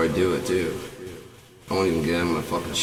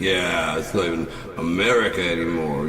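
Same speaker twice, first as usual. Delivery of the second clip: laughing sarcasm. Retold or imitated. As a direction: scoff through laughter. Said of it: "I'm like".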